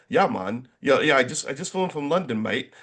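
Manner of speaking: lightly imitated British accent; a touch of mock British English. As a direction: retell it as a casual Londoner, British accent. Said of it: "starts doing this really great British accent".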